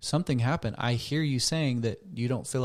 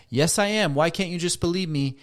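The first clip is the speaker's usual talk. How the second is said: defensive protest; 5 semitones higher than usual. Acted. Partner denying the accusation, defensive and raised. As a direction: push back, hurt and defensive.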